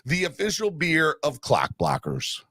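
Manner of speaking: sponsor read, measured pace; host reading the beer ad. Acted. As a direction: sell it like a radio spot.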